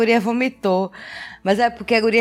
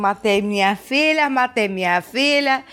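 panicked retold cry. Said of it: "eu comecei a gritar".

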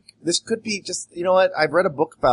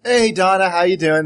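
phone greeting; 6 semitones higher, 6 dB louder than usual. Acted. Opens acted phone call to receptionist.

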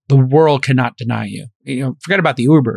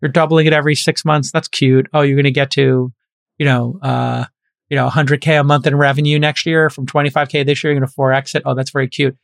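condescending. Retold or imitated. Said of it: "the people who were like".

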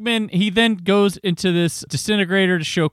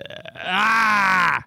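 exasperated cry. Real, not acted. Exasperated by the mispronunciation.

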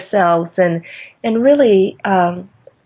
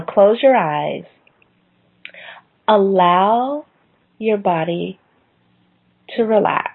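calm guidance; slower than usual. Shown as a demonstration. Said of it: "I say the acronym for calm is".

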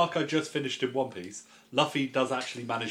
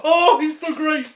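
mock gushing; 10 dB louder, slower than usual. Real, not acted. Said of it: "gushing mock praise".

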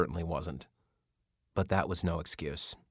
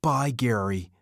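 higher, louder fake surrender; mock resigned; 6 semitones higher, 6 dB louder than usual. Lefty fakes leaving for the guard, loud and high. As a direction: pretend to give up cheerfully.

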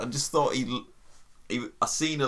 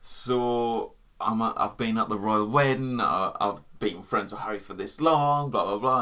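James Corden. Retold or imitated. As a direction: put on a smug, really posh English accent. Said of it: "he puts this really posh accent on".

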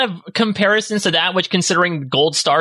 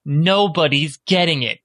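mock stern verdict; 3 semitones lower, slower than usual. Imagined council withholding the star.

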